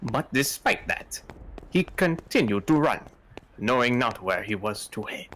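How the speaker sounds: put-on narration slipping into a light French accent; accidental French. Player narrating as the maid, drifting into French. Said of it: "I keep going French".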